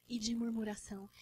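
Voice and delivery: whispered aside, no voice. Real, not acted. Preacher whispering to the church about complaining. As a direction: breathe the words out without voice.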